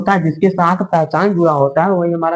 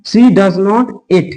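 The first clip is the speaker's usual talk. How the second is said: slow dictation; 3 semitones higher, much slower than usual. Shown as a demonstration. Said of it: "ठीक है, eat।".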